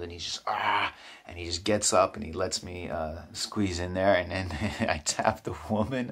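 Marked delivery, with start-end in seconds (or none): 0.5-0.9 imitated frustrated, overwhelmed groan; exasperated "ah". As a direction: let out a mock exasperated sigh. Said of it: "he's, like, frustrated and overwhelmed".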